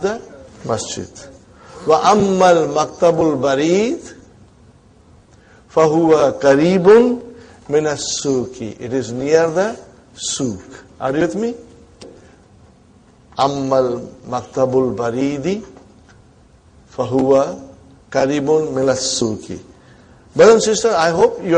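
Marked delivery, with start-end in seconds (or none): 1.9-8.8 fast reading. Shown as a demonstration. Fast model reading of answer. 13.4-19.7 fast reading. Shown as a demonstration. Repeats model answer fast.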